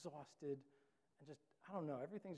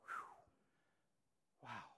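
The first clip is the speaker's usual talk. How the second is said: breathy whew then lower, softer relief; relieved sigh; 5 semitones lower, 7 dB quieter, slower than usual. Retold or imitated. Caught but forgiven, sighing with relief under the breath. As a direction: exhale the relief quietly. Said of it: "you're like".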